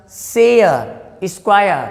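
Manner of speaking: शेयर and स्क्वायर stretched into a vowel glide; gliding 'e-a' ending. Shown as a demonstration. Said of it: "यहाँ पे हम ए अ भी कह सकते हैं". (शेयर, स्क्वायर में ए-अ की खिंची ध्वनि)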